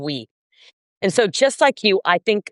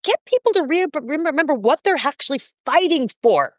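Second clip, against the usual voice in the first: 1 emphatic and excited; 7 semitones higher than usual. Real, not acted. Emphatic, rising passion.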